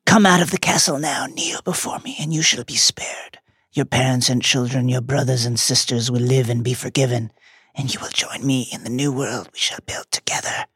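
cold menacing whisper; cold rasping evil emperor. Acted. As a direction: coax them to kneel, sinister and hushed. Voldemort demand, whispered menace.

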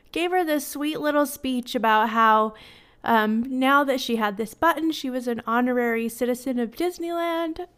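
real tears held back, embarrassed laugh at the end; tearful. Real, not acted. Mother retelling the sweet little speech to her daughter, tearful. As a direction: keep telling it through welling tears. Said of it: "so silly that I cry".

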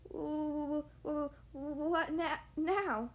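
stammering through chattering teeth. Acted. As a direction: shiver out the words. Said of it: "teeth started chattering".

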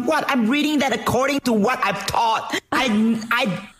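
high-pitched, incredulous protest; mock indignation. Streamer denying an accent to viewers, high mock outrage. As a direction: protest in disbelief, voice climbing into a squeal. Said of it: "I was like".

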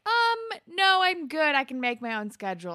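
imitated emphatic refusal; mock brush-off. Acting out a pointed refusal.

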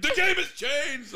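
high, slow grand pronouncement; mock dramatic movie line. The guy at the bar answering him with a slow dramatic movie line. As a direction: deliver it like a trailer line. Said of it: "He's like".

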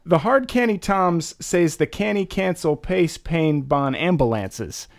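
hard canny Tom said as heavy local slang; thick Baltimore slang read aloud; Baltimorese read aloud. Shown as a demonstration. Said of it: "That's really good, actually".

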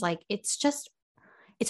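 hushed whisper. Real, not acted. Whispered aside about the chaotic bins. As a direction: drop to a whisper on it.

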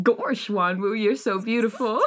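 lightly goofy cartoon voice; a hint of dopey cartoon dog. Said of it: "Did you just goofy him".

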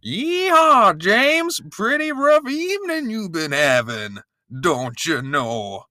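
high, hammed-up Southern drawl with a yeehaw; Southern accent. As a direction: play Mark Austin as a cowboy in a Southern accent. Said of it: "I'm gonna do it with a Southern accent".

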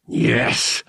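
breathless whispered yes; muttered yes. A narrator's reading. Han lining up his shot, whispered yes. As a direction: hiss it under your breath in triumph. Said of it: "Han muttered".

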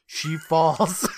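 breaking into laughter while narrating; laughing. Real, not acted. Host recaps the anticlimactic fall to co-host, laughing. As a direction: tell it through a real laugh.

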